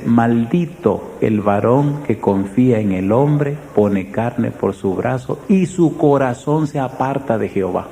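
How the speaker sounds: slow, deliberate reading of a Bible verse; slow solemn scripture recital. Acted. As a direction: read the verse slowly and weightily. Reads Jeremiah verse aloud.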